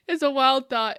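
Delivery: amused, laughing through it. Real, not acted. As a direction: laugh the thought out loud. Laughing at a wild idea.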